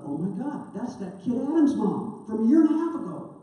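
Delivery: retold panic on realizing who is calling; alarmed realization. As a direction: gasp it out as dread hits you. Recognizing the worried mother calling.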